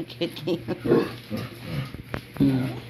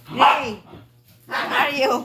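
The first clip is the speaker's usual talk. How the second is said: high loud call, then asking where; 7 semitones higher, 4 dB louder, slower than usual. Real, not acted. Owner searching for her pet, high loud call. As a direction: shout the name to find him.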